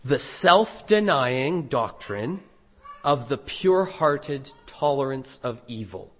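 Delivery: spaced out, with a pause midway; slow reading. Real, not acted. Preacher reading out a long sermon title, slowly. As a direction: read out slowly and deliberately. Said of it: "I'll read it slowly".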